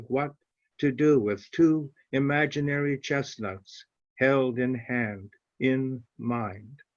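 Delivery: slow, measured reading with long pauses between phrases; poem reading. Acted. Farmer reading his poem about his tree lines to the online audience, slow and measured. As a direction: let each image settle before the next line.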